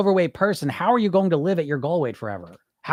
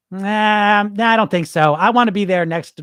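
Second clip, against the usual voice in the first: louder, impatient mock client; stubborn refusal; 5 dB louder than usual. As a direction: brush off the plan like a stubborn dieter. Client refusing the year-long plan.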